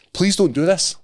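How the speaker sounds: high, drawn-out mock plea; hammed-up weary plea; mock pleading. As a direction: beg him to stop, half-joking. Pleading with the fan.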